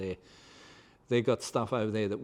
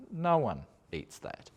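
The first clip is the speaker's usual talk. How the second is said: deadpan; 3 semitones higher than usual. Real, not acted. Repeating the point to viewers, slow deadpan. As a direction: settle it flatly and slowly.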